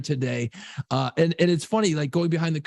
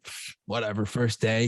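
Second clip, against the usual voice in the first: put-on bored teen; 5 semitones lower than usual. Dad imitating his son shrugging off first day, bored. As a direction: shrug it off like a bored eighth grader. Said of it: "he's like".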